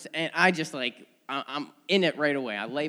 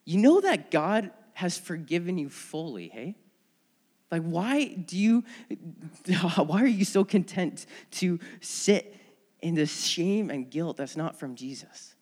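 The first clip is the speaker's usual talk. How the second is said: friend laughing gently; 3 semitones higher than usual. Retold or imitated. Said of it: "he's like".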